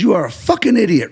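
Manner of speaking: high, punched-out mock insult; emphatic. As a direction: imitate someone laying into you. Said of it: "emphatic at the time".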